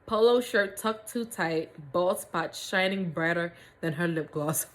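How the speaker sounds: slow, savored read-aloud; story narration. A narrator's reading. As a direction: draw out each descriptive phrase for comic effect.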